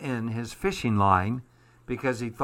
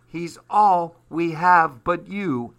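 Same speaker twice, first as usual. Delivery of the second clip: pleading; 5 semitones higher, 6 dB louder, slower than usual. Acted. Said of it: "added Paul".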